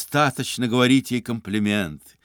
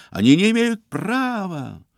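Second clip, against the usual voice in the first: indignant protest; 9 semitones higher, 3 dB louder than usual. Acted. Iznurenkov protesting, continues cry.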